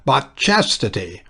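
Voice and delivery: slow, solemn churchy declaiming; Oxford movement voice. A narrator's reading. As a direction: preach it like an Oxford cleric. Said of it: "in his Oxford movement voice".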